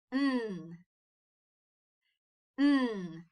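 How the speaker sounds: N held as "nnn"; letter sound. Shown as a demonstration. Teacher making the sound with the child, N as "nnn". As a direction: hum N through the nose, no vowel. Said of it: "N sound with me".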